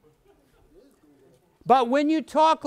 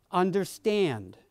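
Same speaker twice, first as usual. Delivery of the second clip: sincere understanding; 4 semitones lower, 5 dB quieter, slower than usual. Shown as a demonstration. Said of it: "You have to be sincere about it".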